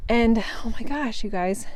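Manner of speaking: winded from walking uphill; breathless, catching her breath. Real, not acted. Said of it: "Sorry, I'm out of breath".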